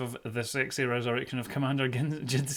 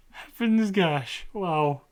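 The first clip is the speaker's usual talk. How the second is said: helpless high laughing fit; cracking up, can barely speak; being tickled; 10 semitones higher, 8 dB louder, slower than usual. Real, not acted. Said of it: "that's genuinely tickled me".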